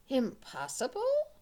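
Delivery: indignant cry of Impossible?; a proud ogre scoffing Impossible?; ogre cries out. Acted. Ogre insulted by Puss's doubt, loud cry. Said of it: "cried the ogre".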